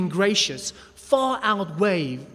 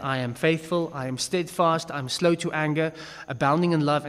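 calm divine declaration. Retold or imitated. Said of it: "he says".

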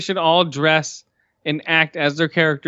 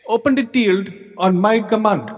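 mock interviewer line; 6 semitones higher than usual. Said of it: "Just say".

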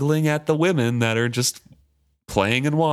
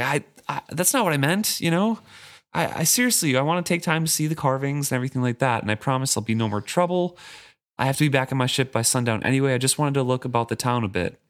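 higher, fast, stammering protest; a boy scrambling to explain himself; nervous teen begging the guards to believe him; flustered pleading; 4 semitones higher, faster than usual. Retold or imitated.

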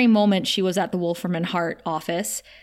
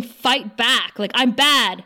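a touch of anger, slightly raised voice; mildly angry; 3 semitones higher, 4 dB louder, slower than usual. Retold or imitated. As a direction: retell an angry challenge, half-heartedly. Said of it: "she's getting angry at him".

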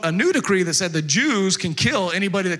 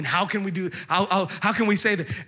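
higher, stumbling mock plea; begging; 5 semitones higher than usual. Haman begging the queen for his life, flustered pleading. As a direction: plead haltingly, tripping over the repeated word. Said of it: "he starts begging the queen".

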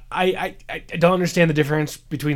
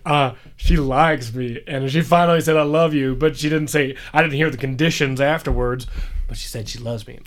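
southern twang. Retold or imitated. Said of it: "like, a southern twang".

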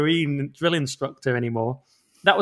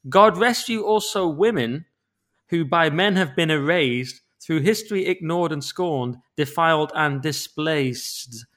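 mock solemn reading; slower than usual. Reading the new verse.

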